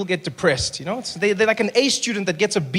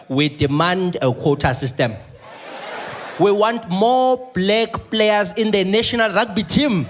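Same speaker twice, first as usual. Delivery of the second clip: mock ministers; slower than usual. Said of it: "ministers that are like".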